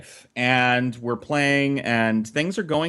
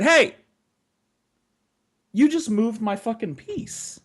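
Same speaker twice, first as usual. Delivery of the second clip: angry yell; 8 semitones higher than usual. Retold or imitated. Kid yelling at cheating sister.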